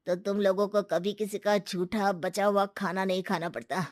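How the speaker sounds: normal talking voice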